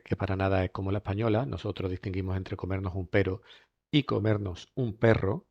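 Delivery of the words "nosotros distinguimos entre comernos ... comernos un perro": perro slowed with a rolled R; contrast pero and perro. Shown as a demonstration. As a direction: stretch out perro against pero. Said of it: "entre la R simple y la R".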